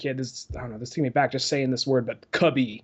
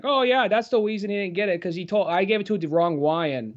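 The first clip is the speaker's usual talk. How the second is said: imitating the kid; 3 semitones higher than usual. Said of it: "He's like".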